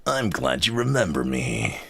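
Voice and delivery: gruff cowboy-spy blend; Solid Snake cowboy mix. Acted. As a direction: growl it with a cowboy twang. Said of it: "Solid Snake Cowboy voice at the same time".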